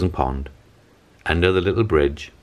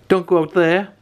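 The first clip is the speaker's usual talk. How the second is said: high, louder frightened plea; storybook fright, pitched up; gasped warning; 14 semitones higher, 5 dB louder than usual. Acted. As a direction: beg her to stop in mock panic. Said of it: "gasped her family".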